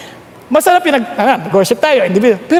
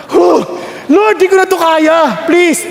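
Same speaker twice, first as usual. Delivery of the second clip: desperate plea; 4 semitones higher than usual. Pretend. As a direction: beg God for rescue, hammed-up. Acted desperate prayer about smell.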